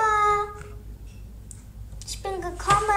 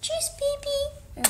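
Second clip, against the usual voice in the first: put-on high, slow sing-song goodbye to the baby; doll voice; 9 semitones higher, 5 dB quieter, slower than usual. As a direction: play the mother doll saying bye. Mama verabschiedet Baby. (hohe, langsame Puppenstimme zum Abschied)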